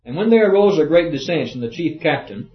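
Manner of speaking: formal scripture-reading voice. Acted. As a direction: proclaim the verse to the room. Reads scripture aloud.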